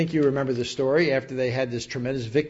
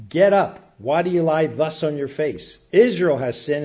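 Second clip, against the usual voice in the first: lightly acted rebuke, louder at the start; answering back; 4 dB louder than usual. The Lord answering back to Joshua, mildly acted rebuke. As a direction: open on a raised command, then ease off. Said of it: "the Lord Jehovah answering back".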